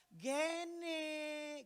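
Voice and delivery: put-on drawn-out call for a child. Shown as a demonstration. Father calling his child's name, long sustained call. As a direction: stretch the name out as if calling across a playground. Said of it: "kalau saya yang teriak".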